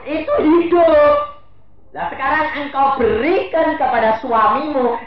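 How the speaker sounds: preaching at full force; forceful preaching. Acted. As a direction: drive it home to the crowd.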